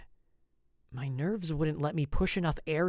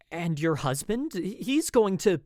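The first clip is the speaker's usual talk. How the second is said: anxious question; 6 semitones higher, 6 dB louder than usual. A narrator's reading.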